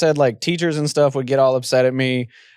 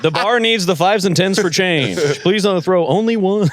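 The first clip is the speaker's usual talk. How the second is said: penny-pinching club emcee; stingy strip club announcer; 5 semitones higher than usual. Pretend. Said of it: "a stingy strip club announcer".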